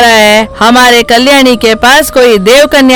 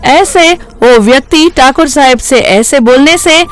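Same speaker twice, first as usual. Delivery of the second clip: plain reading voice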